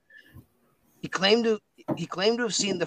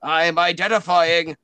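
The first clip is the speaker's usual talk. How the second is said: Winston identifying; 6 dB louder than usual. Acted. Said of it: "He's like".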